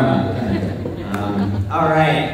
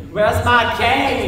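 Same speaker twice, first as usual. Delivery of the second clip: put-on very old man; 4 semitones higher, 4 dB louder, slower than usual. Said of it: "frail old man".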